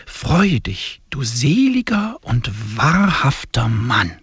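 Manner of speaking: solemn, measured liturgical reading; hymn recitation. Acted. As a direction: intone each line like a prayer. Reads the hymn aloud.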